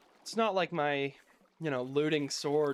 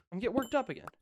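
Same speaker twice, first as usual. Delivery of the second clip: catching himself; 8 semitones higher, much faster than usual. Real, not acted.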